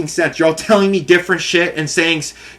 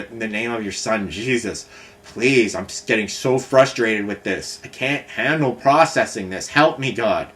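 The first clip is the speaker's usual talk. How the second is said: retold prayer; 3 semitones lower than usual. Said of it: "We prayed together".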